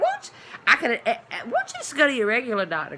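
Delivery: high mock-snooty voice, fast with a laugh; mocking the lady. Quoting the lady with two boys, mock-snooty and fast. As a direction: mimic her prissy advice, laughing. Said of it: "that's what the lady ... said".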